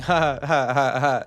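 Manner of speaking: hammed-up ha ha ha; laughing. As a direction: laugh off your own naive guess. Laughs at own naive estimate.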